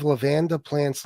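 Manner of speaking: "lavender" said as la-VAN-da; mispronounced lavender. Retold or imitated. Host quoting rival about surviving plants, mispronouncing "lavender". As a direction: imitate "lavender" with the stress moved to VAN. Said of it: "That's how my wife pronounces lavender".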